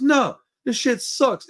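high, slow, drawn-out mock refusal; retold defiant refusal. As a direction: act out a stubborn kid refusing, without shouting. Retold defiant answer to dad.

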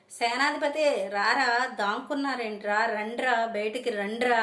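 a touch of a yelling mother; shouting. Acted. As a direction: call them out of hiding with a yell. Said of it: "గట్టి గట్టిగా అరుస్తుంది".

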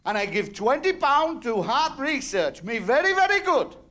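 high, sing-song mock Pakistani accent, boasting to Saint Peter. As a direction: pitch up and bounce on each very in a Pakistani accent. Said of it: "So there was this Pakistani".

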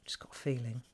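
breathy hushed whisper, barely voiced; whispered aside. Real, not acted. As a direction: let it slip out as a private hunch. Private hunch muttered aside.

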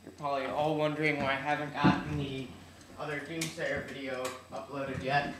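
slightly odd speech around new braces; talking with braces. Real, not acted. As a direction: speak around a mouthful of braces. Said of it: "if you hear me talking kinda weird, it's 'cause I got braces".

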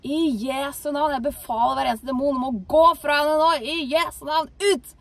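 loud, forceful command, rising to a shouted out; commanding rebuke. Retold or imitated. Believer commanding the demons to leave the woman, loud. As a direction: cast them out with full authority.

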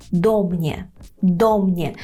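"до mnie" as one word, ДО stressed, falling; stress on first syllable. Shown as a demonstration. Teacher repeating for learners, stress on ДО. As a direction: press on ДО, let "mnie" fall. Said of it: "передостанній склад фактично".

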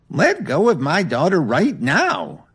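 loud, slow, furious mother; angry roar. Acted. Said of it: "Dorothy roared angrily".

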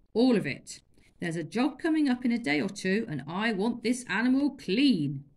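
loud curt master; stern orders. Acted. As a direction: bark the order.

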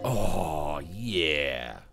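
put-on loud, drawn-out kid yell; kid's loud cry. Kid hollering at the cop, loud. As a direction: belt it out like a taunting kid.

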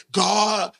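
ordinary talk

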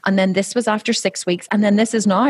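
a hint of a child showing off her pictures; imitating young daughter. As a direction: daughter eagerly showing her progress photos. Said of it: "she was like".

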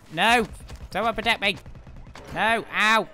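loud real yelling for help; panicked shout. Real, not acted. Gamer yelling for teammates to protect him, panicked shout. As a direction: shout out as the bomb carrier gets hit. Panicked calls during game fight.

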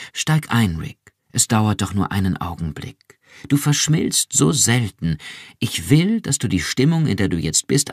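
höher und lauter, beschwörend; drängend. Acted. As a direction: ihn eindringlich überreden. Iran drängt Rick eindringlich. (Iran drängt Rick im Fahrstuhl eindringlich)

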